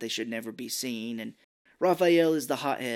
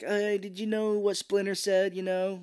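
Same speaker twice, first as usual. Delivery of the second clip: higher, slow earnest question; earnest turtle; 7 semitones higher than usual. Retold or imitated. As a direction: ask sincerely. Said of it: "Donatello is all like".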